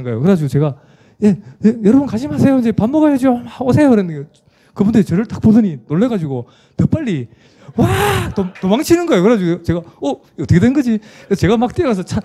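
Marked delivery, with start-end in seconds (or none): 1.2-3.9 calling out. Retold or imitated. Pastor calls the fleeing men back to eat, high and pleading. 7.8-8.3 high startled yelp of fear; panicked yell. Retold or imitated. Defectors cry out as they run from the pastor, a high yelp. 9.8-11.0 high, puzzled "what happened"; baffled. Retold or imitated. Pastor wonders why the men are running away, high and baffled.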